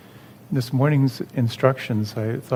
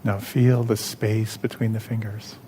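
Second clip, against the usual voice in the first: calm, measured instruction with long pauses; guided meditation. Real, not acted. Leads second guided exercise.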